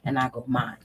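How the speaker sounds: gently letting an ex down, polite and easy; calm, friendly refusal without anger; nice tone. Shown as a demonstration. Turning down an ex's invite, lightly voiced nice tone. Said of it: "in a slow, nice tone".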